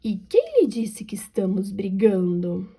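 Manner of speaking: breathy hushed read of the line; whispered line. Acted. Professora lê fala de personagem. (sussurrando a fala)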